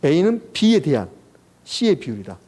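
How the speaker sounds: reading demonstration. Shown as a demonstration. Teacher repeating the fraction reading for students, reading demonstration. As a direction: model the formula in separate, measured phrases. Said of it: "분수식 읽을 때 이렇게 읽어가는 거예요".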